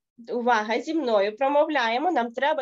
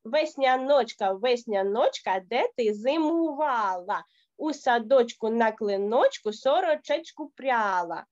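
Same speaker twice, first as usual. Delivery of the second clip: rhythmic recitation. Shown as a demonstration. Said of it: "Давайте ще разочок разом зі мною".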